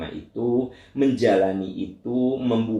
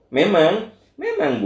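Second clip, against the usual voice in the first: higher and louder, driving the point home; emphatic preaching; 11 semitones higher, 6 dB louder, slower than usual. Real, not acted. Preacher insists to the mothers, high and emphatic. Preacher stresses hard truth.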